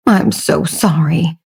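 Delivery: slow, soft, dry mock apology; sarcastic. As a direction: say it with an eye-roll. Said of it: "replied sarcastically".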